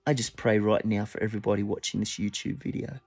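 soft, hushed pastoral prayer; quiet spoken prayer. Real, not acted. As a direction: pray gently over the listeners. Leads a closing prayer.

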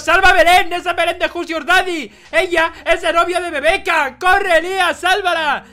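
urgent command. Pretend. Urgent orders during a chase.

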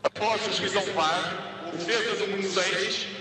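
referee over the loudspeaker; stadium PA announcement. Real, not acted.

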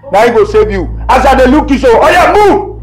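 wife drives her husband out, shouting; angry scolding. Acted. Wife throws husband out of the house, angry and loud.

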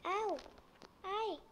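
short high yelps of pain; screaming while falling. Real, not acted. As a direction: yelp as you fall. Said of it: "tô caindo".

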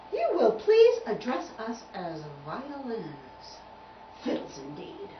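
slow, haughty correction; great indignation. Acted. Violins correcting Tubby, indignant. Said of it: "quivered with great indignation".

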